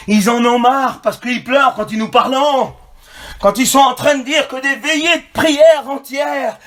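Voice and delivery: impassioned preaching, pitch climbing mid-run; full-force preaching. Real, not acted. Preacher defending nights of prayer against emotional songs, full-force preaching. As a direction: build to a shouted pulpit protest.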